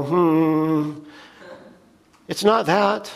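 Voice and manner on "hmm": mock meditative hum. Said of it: "kinda go".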